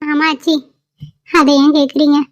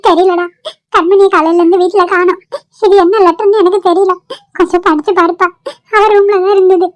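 tearful grandmother; 3 semitones higher than usual. Acted. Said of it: "என்னம்மா வெளியே நின்று அழுதுட்டு இருக்க".

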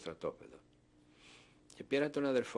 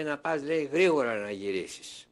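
commandant's order; 3 semitones higher, 6 dB louder than usual. Retold or imitated. German commandant giving an order.

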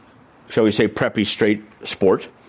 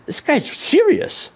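shocked realisation; slower than usual. Real, not acted. Sudden realisation of threat.

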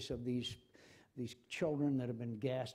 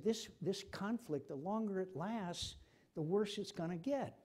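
urgent warning; 7 semitones higher than usual. Retold or imitated. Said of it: "I said".

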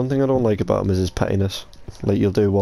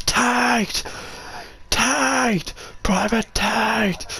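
mock call; 13 semitones higher, much slower than usual. Echoing the call for Tate.

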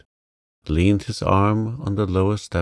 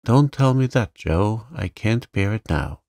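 fierce, louder outcry; 3 semitones higher, 4 dB louder than usual. Acted. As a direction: cry it out fiercely. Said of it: "cried out in a fierce tone".

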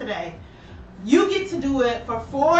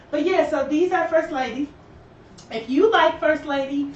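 breathless, talking between breaths; winded, pushing the words out; 2 semitones higher than usual. Real, not acted. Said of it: "I am so out of breath".

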